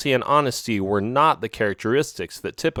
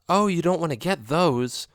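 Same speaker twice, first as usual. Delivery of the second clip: slightly higher, knowing alley cat; lightly voiced friend cat; 6 semitones higher than usual. A narrator's reading. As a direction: warn him off casually. Narrator voices Oreo.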